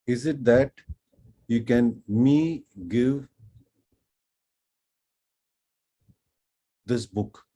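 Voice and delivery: laboured learner question, word by word; halting learner's question. Retold or imitated. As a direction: re-enact piecing a foreign sentence together. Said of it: "and I asked".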